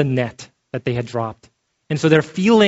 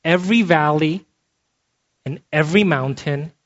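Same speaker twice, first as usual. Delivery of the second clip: Every said with weight, the rest lighter; emphasis on every. Shown as a demonstration. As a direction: stress on Every in Every valley and every mountain. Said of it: "I'm gonna put an emphasis on the word every".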